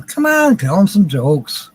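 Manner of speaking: a light high-pitched voice for his late friend, coaxing; imitating Tammy. Late friend Tammy urging him from above, mock coaxing. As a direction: lightly voice her nudging him to joke. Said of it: "Tammy's up there saying".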